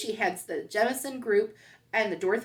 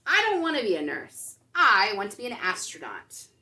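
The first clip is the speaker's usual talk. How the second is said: firm protest; 7 dB louder than usual. Acted. May protests to teacher.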